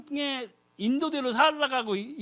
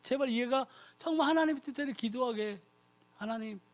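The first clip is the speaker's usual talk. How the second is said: softer, earnest plea; interceding prayer; 9 dB quieter than usual. Retold or imitated. The Holy Spirit pleads for the believer, soft and earnest. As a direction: pray gently on someone's behalf. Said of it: "이렇게 기도하고 있다는 거예요".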